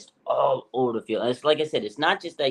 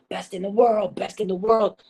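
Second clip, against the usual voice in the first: high, hyped-up yell from the sideline; 9 semitones higher than usual. Retold or imitated. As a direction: shout it like a teammate pumping him up. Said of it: "Mooney Ward yelling".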